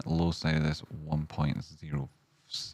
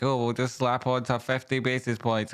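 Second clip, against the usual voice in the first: lightly mocking, breezy official tone, higher; mocking Britain; 6 semitones higher than usual. Streamer mocking Britain's rate hike, mild higher mock voice. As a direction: toss it off like a careless British banker. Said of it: "you know what Britain's like".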